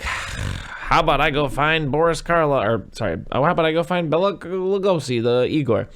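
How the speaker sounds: lightly voiced schemer; mock movie villain. Son proposing to fetch Igor, in a hammed-up voice.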